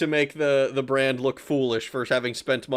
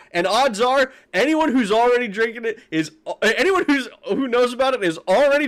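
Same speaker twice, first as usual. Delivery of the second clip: heated rant; 8 semitones higher, 4 dB louder than usual. Real, not acted. Sarcastic escalating rant.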